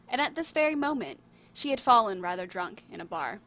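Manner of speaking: measured storybook reading with lifted openings; story narration. A narrator's reading. Writer reading their own tale to viewers, storybook narration. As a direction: read it out like a fairy tale.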